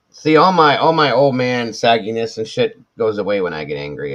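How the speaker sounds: loud, high hyped-up boast; excited boast. Pretend. Bragging to viewers about his angry change, excited. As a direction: pump it up like a show-off.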